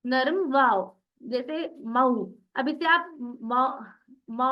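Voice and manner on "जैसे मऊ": मऊ slowly, a soft gliding औ; drawn-out soft vowel. Shown as a demonstration. Teacher models the soft waw for students. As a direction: stretch मऊ out, letting the vowel glide. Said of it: "इस तरीके से पढ़िए".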